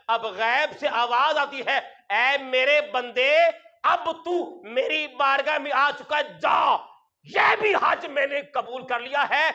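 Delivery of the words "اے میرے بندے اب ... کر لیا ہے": joyful divine voice. Acted. Preacher voicing heaven accepting the pilgrim, joyful proclamation. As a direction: announce the acceptance with joy.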